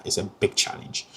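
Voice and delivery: "it's a big challenge" dropped to a near whisper; hushed repeat. Real, not acted. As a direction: let "big challenge" sink into a breathy whisper. Repeats the phrase more softly.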